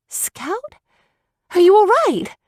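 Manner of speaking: put-on high, worried girl's voice; a small sister checking on him; little sister voice. A narrator's reading.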